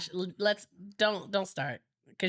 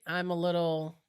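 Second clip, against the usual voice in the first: blocked nose from a cold; stuffy nose; 4 semitones lower than usual. Real, not acted. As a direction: talk through a runny nose. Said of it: "I'm stuffy".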